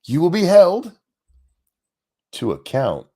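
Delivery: mocking imitation. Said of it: "four second beat there?".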